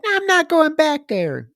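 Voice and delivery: high-pitched mock protest; panicked refusal. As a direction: retell her balking in a high voice. Acted refusal from frightened character.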